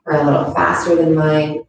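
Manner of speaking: calm, unhurried yoga teacher voice; guided yoga instruction. Acted. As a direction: guide gently through each movement, leaving long pauses. Leads a yoga practice.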